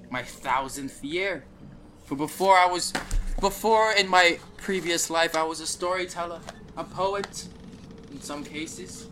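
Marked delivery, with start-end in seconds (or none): 2.0-9.1 higher, louder boastful dwarf; lightly hammed-up proud storyteller; hammy stage actor. Dwarf continues grandly.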